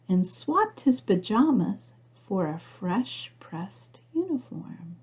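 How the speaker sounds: put-on gentle read-aloud narration for children; storybook reading. A narrator's reading. Reading picture book aloud.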